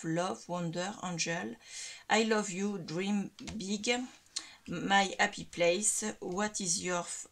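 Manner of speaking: English words in a strong French accent. Real, not acted. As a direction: read out English sayings with your French accent. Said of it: "Avec mon accent, vous adorez". (accent français en anglais)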